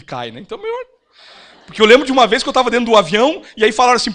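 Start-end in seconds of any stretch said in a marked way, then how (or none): 1.6-3.4 laughing. Real, not acted. Laughing while telling flight story.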